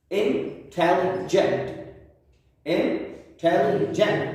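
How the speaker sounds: इंटेलिजेंट said slowly, each syllable apart; slow syllable demo. Shown as a demonstration. Teacher shows students the three syllables, slowly. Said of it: "three सिलेबस है इसमें भी".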